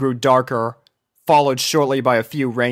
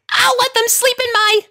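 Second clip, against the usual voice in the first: much higher, whiny plea; begging; 3 dB louder than usual. A narrator's reading. Sweetie Belle begging Rarity for the puppies. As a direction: plead like a little kid.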